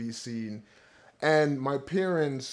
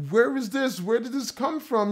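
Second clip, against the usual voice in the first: pitched-up amazed questions; astonished; 9 semitones higher than usual. Retold or imitated. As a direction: retell the shock of seeing it again. Retold amazement at old drawing.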